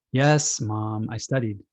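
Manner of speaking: an exasperated, drawn-out yes, Mom; a fed-up kid defending himself; exasperated child. Acted. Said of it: "The child is a little exasperated".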